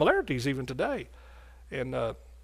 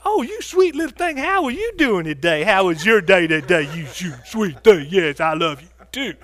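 put-on doting baby talk; 5 dB louder than usual. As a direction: coo over the little dog like a baby. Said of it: "little Rover shows up".

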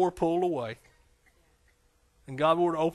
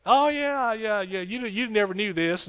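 higher, louder, eager start of a story; an angel bursting to tell you; eager angel telling stories; 6 semitones higher, 3 dB louder, slower than usual. Retold or imitated. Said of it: "hear some stories".

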